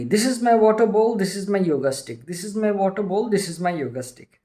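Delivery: mock loud chanting, brisk; lightly voiced sage chanting loudly at the king. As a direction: rattle off the possessions loudly, like a mantra. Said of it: "He began to say very loudly".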